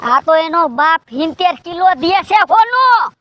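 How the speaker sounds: boastful shout. Acted. Boasting absurd gold dowry.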